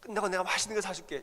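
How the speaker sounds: husband keeps encouraging his wife; eager encouragement. Retold or imitated. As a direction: keep cheering her on with food. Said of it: "또".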